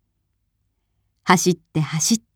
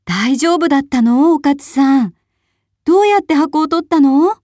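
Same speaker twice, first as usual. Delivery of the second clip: much higher, a bit louder, eager questions; eager villagers; 7 semitones higher, 3 dB louder than usual. A narrator's reading. Villagers greet Okatsu back, eager and much higher. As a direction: crowd them with amazed questions. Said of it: "みんなはお勝に聞きました".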